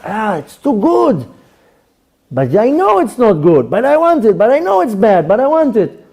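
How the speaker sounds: torn between knowing better and wanting it; craving chocolate. Retold or imitated. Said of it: "You said with the chocolates".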